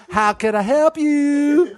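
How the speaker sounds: slow, high redneck drawl; redneck God. Acted. God offers help, high redneck drawl. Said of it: "It's some redneck".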